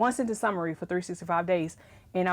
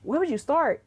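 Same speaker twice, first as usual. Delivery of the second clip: overwhelmed; 7 semitones higher than usual. Retold or imitated. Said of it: "And I was like".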